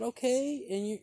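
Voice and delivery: retelling his heated reply to the woman; indignant retort. Retold or imitated. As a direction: snap back with indignation. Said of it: "I said".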